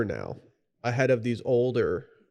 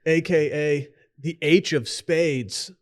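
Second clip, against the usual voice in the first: announcer intro; 2 semitones higher, slower than usual. Acted. Hype intro of a guest.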